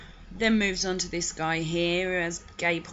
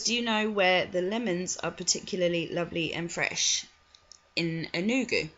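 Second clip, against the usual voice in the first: creepy Boothby. Retold or imitated. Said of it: "I have to do his voice".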